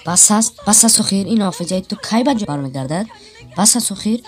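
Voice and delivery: loud, fed-up protest; exasperated. Acted. Melis fed up with Kamol's games, loud exasperation. Exasperated, begging him stop.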